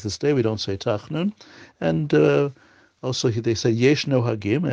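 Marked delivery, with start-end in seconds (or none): 3.7-4.7 "no hagim" drawn out slowly for emphasis; slow down to lean on "no hagim"; stress on "no hagim". Shown as a demonstration. Teacher reading out a custom from the book, stressing "no hagim". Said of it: "emphasis on the word no hagim".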